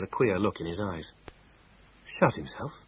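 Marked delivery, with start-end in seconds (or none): 2.1-2.8 slow, stunned echo; stunned repetition. Acted. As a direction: repeat it in disbelief. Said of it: "he repeated slowly".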